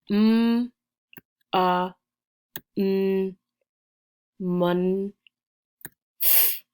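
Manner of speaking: MONTH built up from separate sounds "M, a, n", then "mon-", "th"; sounded out. Shown as a demonstration. Teacher counts the sounds in month, sounded out and blended. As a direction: say "M, a, n" apart, blend "mon-", add "th". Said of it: "count the sounds in the word month".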